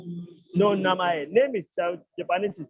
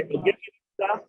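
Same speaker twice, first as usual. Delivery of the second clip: high rising question; 13 semitones higher than usual. Shown as a demonstration. Teacher showing class a polite question, high and light. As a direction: pitch the whole O genki desu ka way up, lightly. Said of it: "You say".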